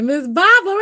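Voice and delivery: high, loud call across a room; yelling Miss Barbara's name from afar. Shown as a demonstration. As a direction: call her name out to get her attention. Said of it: "I had to think how I be saying it".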